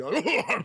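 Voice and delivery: high wordless stuffy British bluster; mock stuffy British harrumphing. Shown as a demonstration. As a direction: mumble nonsense like a stuffy Brit. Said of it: "the, uh, stuffy Brit".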